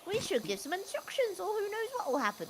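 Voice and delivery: lightly voiced character reading a message aloud; reading in his voice. Host reading a friend's messages out to co-host, put-on character voice. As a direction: read it out in a put-on northern character voice. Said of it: "read out in his voice".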